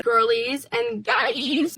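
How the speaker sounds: slow mocking demo of guys as "guy-eez". Shown as a demonstration. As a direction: stretch guys into "guy-eez" to match girlies. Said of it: "I always say guys".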